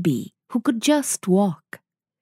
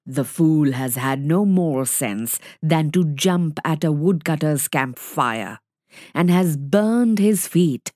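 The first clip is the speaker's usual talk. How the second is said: gruff father wolf; 4 semitones lower than usual. Acted. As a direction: lower grunting wolf voice. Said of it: "said Father Wolf with a grunt".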